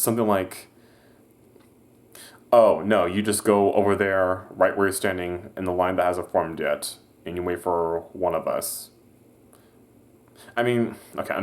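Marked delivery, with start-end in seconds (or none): 2.5-8.9 smart-ass reply. Retold or imitated. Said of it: "kinda makes a smart-ass response".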